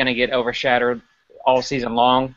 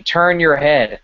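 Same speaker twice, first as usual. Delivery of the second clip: mildly raised imitation of yelling; mock fan scream; 3 semitones higher, 4 dB louder, slower than usual. Fan yelling at Baylor cornerbacks, mock scream held back. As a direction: half-shout it like an exasperated spectator. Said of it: "and you're screaming".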